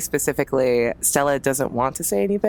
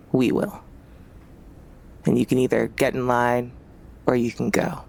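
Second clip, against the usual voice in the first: cold threat. Acted. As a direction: lay down the law coldly. Leader threatening Fatima.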